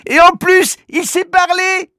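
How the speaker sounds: put-on high, loud amazed boy's cry; excited exclamation. Manu amazed the toy can talk, loud excited cry. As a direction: burst out in astonishment. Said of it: "s'écrie Manu".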